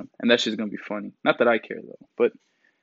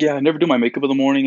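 fast, a bit louder ditzy celebrity brag; airhead voice; 3 semitones higher, 5 dB louder, faster than usual. Retold or imitated. Mocking the influencer's bragging, airheaded and quick. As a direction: rattle it off like a self-important airhead. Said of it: "very airhead".

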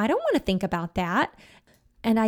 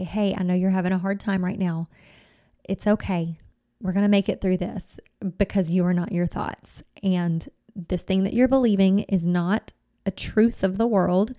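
compassionate self-talk. Shown as a demonstration. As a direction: soothe yourself like a hurting friend, hand on heart. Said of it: "this does require some compassion on your part".

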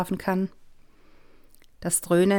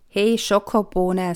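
affectionate greeting; 4 dB louder, slower than usual. Acted. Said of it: "zur Begrüßung".

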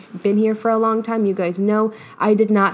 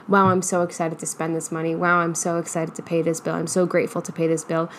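grateful; 3 semitones lower, 4 dB quieter than usual. Shown as a demonstration. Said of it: "we need to be experiencing".

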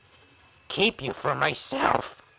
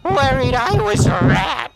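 higher, louder gloating taunt; gloating discovery; 9 semitones higher, 6 dB louder than usual. Acted. Villain gloats at the spy in the walls, louder and higher. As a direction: relish catching them hiding. Villain finds hidden prey.

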